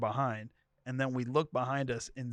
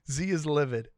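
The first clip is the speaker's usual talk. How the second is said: put-on Z is livid in a deep African accent; thick African accent; 3 semitones higher, 4 dB louder than usual. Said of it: "this deep African accent".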